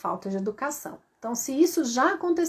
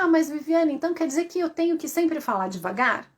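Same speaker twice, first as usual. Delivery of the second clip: higher, quick objecting question; brisk, raised-pitch query; questioning listener; 4 semitones higher, faster than usual. Acted. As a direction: play a follower protesting in a hurry. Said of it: "pode até me perguntar".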